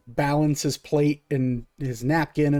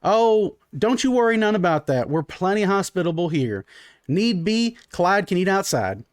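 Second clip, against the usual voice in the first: high, folksy call from the kitchen; Urena; 5 semitones higher than usual. Acted. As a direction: brush the worry off in a raised, high voice. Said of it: "you hear Urena go".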